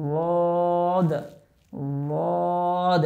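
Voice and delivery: লদ with the tongue's side edge on the upper molars; Arabic letter demo. Shown as a demonstration. Teacher showing students লদ. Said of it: "জিহ্বার গোড়ার কিনারাটা উপরের মাড়ির দাঁতের".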